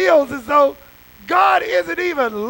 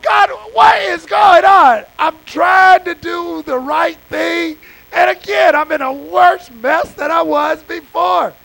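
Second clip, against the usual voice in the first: crying out to God; 3 semitones higher, 5 dB louder than usual. Retold or imitated. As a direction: cry out loud, pleading with heaven. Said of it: "David is crying out".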